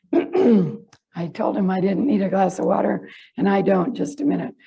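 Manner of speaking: hoarse, voice giving out; raspy, voice barely there; losing voice. Real, not acted. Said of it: "My voice will come back in a minute".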